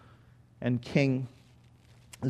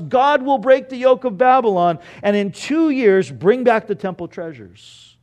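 raised, high preacher's proclamation; imitated prophet's shout; 6 semitones higher, 5 dB louder than usual. Preacher acting Hananiah breaking the yoke before everyone, mock prophetic shout. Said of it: "and he shouts".

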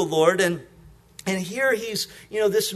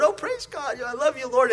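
bright mock "praise God", pitched up; phony praise; 5 semitones higher than usual. Preacher mocking believers going through the motions, hollow cheer. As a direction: put on a hollow churchy cheer. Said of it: "we do that with the Lord".

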